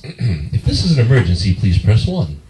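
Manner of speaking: flat recorded phone menu voice; automated voice. Retold or imitated. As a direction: read it like a machine. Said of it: "voice automated".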